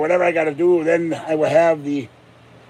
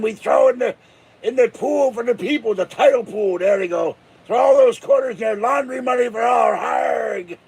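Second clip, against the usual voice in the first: hyped pirate rant; 5 semitones higher than usual. Pretend. Pirate mob fantasy.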